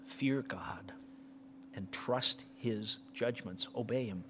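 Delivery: hushed unvoiced whisper; softly whispered close. Real, not acted. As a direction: drop to a reverent whisper.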